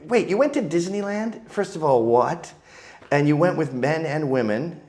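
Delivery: high-pitched incredulous ranting; mock disbelief. Friend scolding producer about Disneyland, high mock disbelief. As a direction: ask it like you can't believe him. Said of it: "I'm like".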